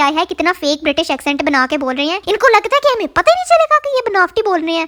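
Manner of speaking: high, mocking gossipy voice.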